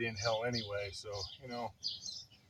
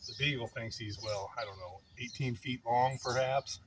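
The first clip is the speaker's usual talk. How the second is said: winded, catching his breath. Real, not acted. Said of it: "let me catch my breath".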